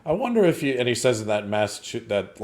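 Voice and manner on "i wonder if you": put-on high-pitched, uppity Massachusetts accent. Host imitating the officer questioning the sergeant, uppity Massachusetts accent. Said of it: "like, uppity Massachusetts accent".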